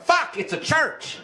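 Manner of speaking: high, loud shocked cry of dismay; shocked outburst. Retold or imitated. Teen arriving at church, shocked high yelp. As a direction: yelp it like the trap just sprang.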